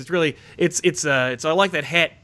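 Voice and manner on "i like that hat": a mild Australian accent on I like that hat; just a hint of Aussie, hat with an open a. Shown as a demonstration. Demonstrating the Australian way to say hat, mild Australian accent. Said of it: "That's Australian".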